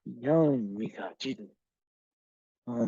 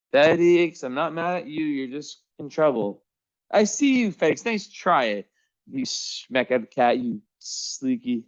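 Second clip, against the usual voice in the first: high sing-song pet voice; pet talk; 4 semitones higher than usual. Real, not acted. Owner finding Felix hiding, high pet voice. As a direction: coax the cat, pitched high.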